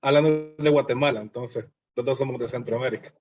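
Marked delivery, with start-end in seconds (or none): 0.0-1.2 a bit louder and clearer for someone who missed it; repeating it louder over a bad connection; repeated louder. Real, not acted. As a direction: say it again so they catch it. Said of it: "¿Cómo?".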